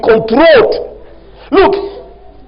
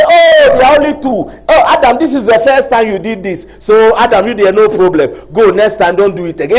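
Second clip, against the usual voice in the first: mock indulgent God.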